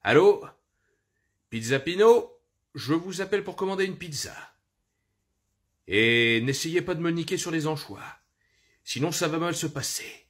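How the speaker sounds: doublage de Bruce Willis, plus aigu; voix de Bruce Willis. Shown as a demonstration. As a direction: commander une pizza en dur à cuire. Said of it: "je vivais toutes des journées entières comme ça". (voix de Bruce Willis au téléphone)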